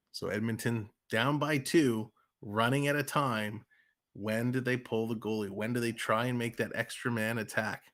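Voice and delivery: quick, lively live game call; rink-side commentator rolling through the play; hockey play-by-play. Acted. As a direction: call the action as it happens.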